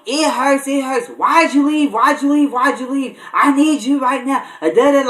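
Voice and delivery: mock the sister begging him to come back; imitating frantic pleading. Sister in labor begging her brother on the phone, whiny panic. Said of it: "frantically freaking out".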